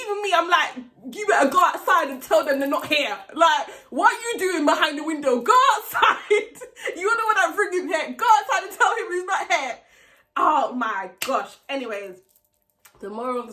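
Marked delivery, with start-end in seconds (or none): 1.1-9.8 exasperated scolding. Retold or imitated. Ordering friend outside during the siege.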